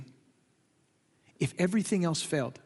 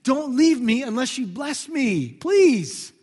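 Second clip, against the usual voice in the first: broken pleading; 3 semitones higher, 5 dB louder, much slower than usual. Retold or imitated. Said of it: "he's finally broken and saying".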